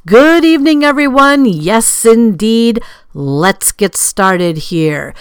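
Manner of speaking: hearty host's welcome, drawing out the last words; show announcer opening. Acted. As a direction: open the show and present the guest with ceremony. Show host announces tonight's guest.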